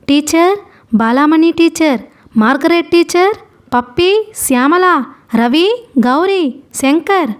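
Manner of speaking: high-pitched calls for lost companions; calling out names. A narrator's reading. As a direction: call each name out high, searching for anyone. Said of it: "సౌరి పెద్దగా నోటికి వచ్చిన పేరులన్నీ పిలవసాగింది".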